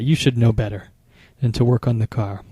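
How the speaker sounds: voiced, a touch of scolding, not whispered; a hint of a disappointed partner; mild reproach. Shown as a demonstration. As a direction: say the reproach half-aloud, lightly scolding. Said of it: "You can hear the tone in my voice".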